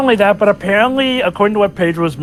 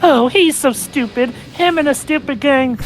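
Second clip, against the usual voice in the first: higher-pitched mock-petty sneer; petty Lightning; 5 semitones higher than usual. Player imitating Lightning describing Snow, mock petty. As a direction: do a petty, higher-voiced put-down. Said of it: "I love how petty Lightning sounds".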